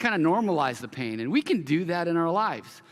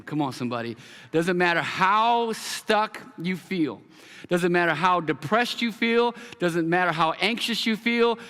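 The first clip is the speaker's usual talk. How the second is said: preaching. Acted. Pastor urging stuck listeners toward hope, preaching with rising fervor. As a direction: lift the congregation toward hope.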